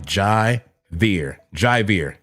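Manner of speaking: "Javier" as jye-VEER, like Jai; "Javier" said chai-veer; first syllable "Jai" as in Jai White; Jai pronunciation. Shown as a demonstration. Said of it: "J A I, like Michael Jai White".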